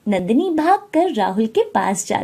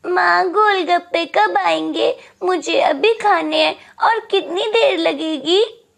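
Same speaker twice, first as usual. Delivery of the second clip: put-on whiny child; 6 semitones higher than usual. Seven-year-old boy nagging mother.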